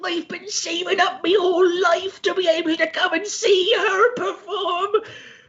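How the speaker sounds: put-on very high, toothless, very old pirate voice. An old pirate in the audience explains why he came; old pirate voice. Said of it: "He's like ninety years old".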